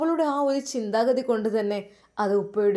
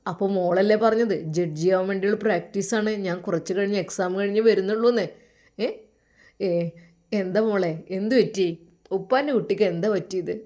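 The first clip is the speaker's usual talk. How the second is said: a lightly lowered, caring father on the phone; 2 semitones lower than usual. Acted. Father on the phone to his daughter, lightly lowered caring voice. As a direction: speak as a gentle worried dad.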